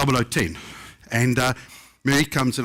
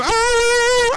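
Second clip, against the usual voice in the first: a singer's shriek; 6 dB louder than usual. Retold or imitated.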